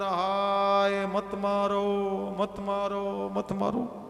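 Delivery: stretched, pleading wail of pain; anguished cry. Acted. Dying sinner begging his tormentors to stop, wailing. Dhundhkari cries out under torture.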